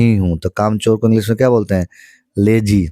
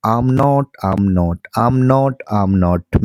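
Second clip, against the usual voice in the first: drill repetition; much slower than usual. Shown as a demonstration. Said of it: "five times आपको क्या करना है, बोलना है".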